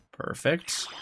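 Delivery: soft whispered approval; whispering. Real, not acted. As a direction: breathe the word out. Whispered reaction.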